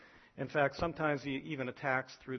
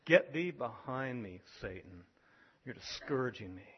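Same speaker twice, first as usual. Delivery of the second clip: Jesus' rebuke; 3 semitones lower than usual. Retold or imitated. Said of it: "He said".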